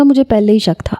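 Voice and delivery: whispered as if sharing a secret; mock whisper. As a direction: breathe it like a joke confession. Son jokes he was adopted. (سرگوشی میں مذاقاً)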